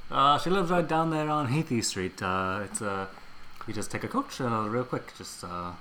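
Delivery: lightly hammed British cabbie; jolly British accent, rising at the end; Cockney coachman accent. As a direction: play a cheery British coach driver. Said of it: "put on accents".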